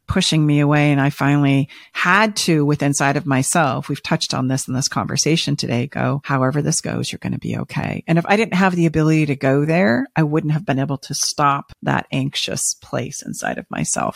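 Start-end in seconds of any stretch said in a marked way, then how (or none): 6.2-8.0 quiet inner voice of comfort; self-reassurance. Retold or imitated. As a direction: softly reassure yourself, trailing quieter. Retells reassuring herself inwardly.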